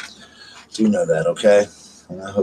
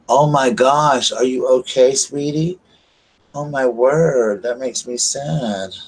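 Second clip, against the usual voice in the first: tender sympathy; 2 semitones higher, slower than usual. Real, not acted. Consoling a viewer who shared bad news, slow and tender. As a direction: comfort a hurting friend slowly.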